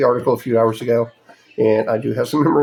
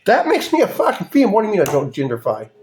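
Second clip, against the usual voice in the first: incredulous; 5 semitones higher, faster than usual. Real, not acted. Sarcastic outrage in rant.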